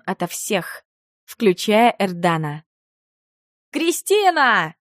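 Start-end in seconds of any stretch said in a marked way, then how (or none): 3.7-4.8 drawn-out call, pitched up; husband yelling his wife's name from the living room; yelled name. A narrator's reading. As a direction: call her name across the house, stretched long. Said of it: "вопль повторился".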